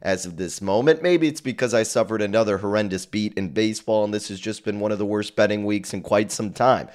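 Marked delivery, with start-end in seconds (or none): 0.0-1.0 a little hoarse, talking through it; slightly hoarse host's voice; a touch of hoarseness. Real, not acted. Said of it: "voice is a little hoarse".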